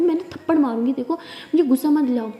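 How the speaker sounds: threaten, but it's a game; mock angry threat. Wife warns her partner not to make her angry, loud mock threat.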